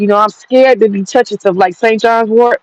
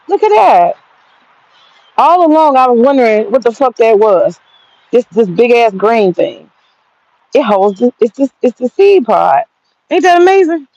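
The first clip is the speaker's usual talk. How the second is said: excited; 2 semitones higher than usual. Real, not acted. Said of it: "I'm so excited".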